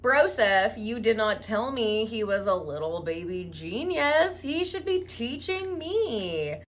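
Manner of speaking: hammed-up impressed gushing; exaggerated amazed teacher; mock awe. Impressed rabbi gushes over genius.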